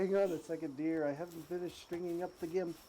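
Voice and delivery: prim homemaker brushing someone off; 1950s housewife. Retold or imitated. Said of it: "a housewife".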